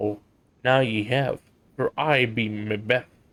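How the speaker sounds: low character voice, dropped right down. A narrator voicing old Macbeth, the midwife, as she introduces herself: voice drops low. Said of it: "her voice drops".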